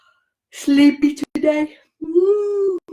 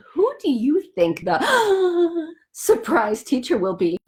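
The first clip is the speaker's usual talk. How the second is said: mock gasp; 3 semitones higher, slower than usual. Dramatic gasp in question.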